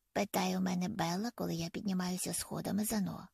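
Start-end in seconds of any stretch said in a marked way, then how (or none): none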